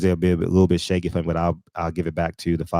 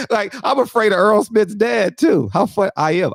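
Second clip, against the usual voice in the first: high, laugh-filled words; laughing while talking; 12 semitones higher, 3 dB louder than usual. Real, not acted. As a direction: speak through the laughter.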